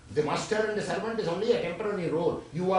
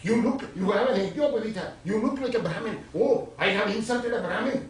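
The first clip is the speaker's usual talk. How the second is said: higher, quick, excited recognition; astonished king; 5 semitones higher, 4 dB louder, much faster than usual. Acted. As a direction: act out a king's startled realisation, words tumbling out fast. Acting the shocked king recognising the holy man.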